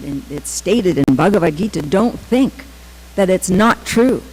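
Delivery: retold earnest insistence, firm emphasis; very serious. Teacher leans toward the students, very serious. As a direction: press the point home as a teacher. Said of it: "serious when he said, he leaned forward".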